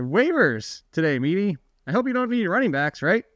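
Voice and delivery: light, hammed-up Australian accent; terrible Australian accent. Host teases cohost about waivers in a mock Australian accent. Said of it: "with my terrible Australian hint, hint accent".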